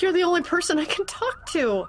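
cling to him with every word; desperate pleading. Acted. Wife pleading with her husband.

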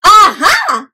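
high, excited cry of discovery; group exclamation. Shown as a demonstration. Reader counting children in to say aha, excited. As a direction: call it out for all to join. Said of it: "Say it with me in three".

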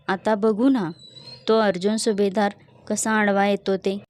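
loud, gloating dare; boastful challenge. Acted. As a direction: throw down the challenge loudly. (मोठ्याने आव्हान देत)

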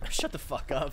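laughing while saying it; laughing at the joke. Real, not acted.

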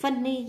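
"funny" stressed on "fun"; first-syllable stress. Shown as a demonstration. Teacher marking word stress, "funny" stressed on the first syllable. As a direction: put the weight on FUN in "funny". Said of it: "nhấn âm một".

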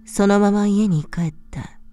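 ordinary delivery

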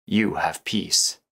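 slow, whispery meditation voice; hushed reassurance. Acted. Guide granting programmers peace with the universe, hushed and slow. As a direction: let it out slowly, almost a whisper.

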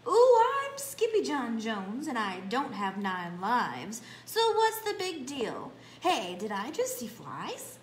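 a kitten boasting to himself; Skippy the kitty boy. Acted. Kitty boy boasting to himself in the mirror, lightly voiced. Skippy cat voice at story start.

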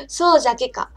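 a light Hiroshima dialect line in a normal voice; plain-voiced Hiroshima dialect. Shown as a demonstration. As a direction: toss off そうじゃけか casually in Hiroshima dialect. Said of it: "広島弁が聞きたいんじゃけの".

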